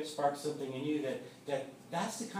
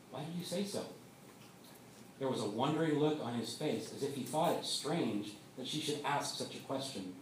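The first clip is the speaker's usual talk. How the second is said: steady storytelling read to the congregation; story narration. Acted. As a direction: read the tale unhurried, drawing listeners in. Reads a faith story aloud.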